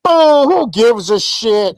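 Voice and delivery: loud hammed-up crowd boo; mock booing. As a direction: jeer like a hostile crowd. Mocking fans booing a name.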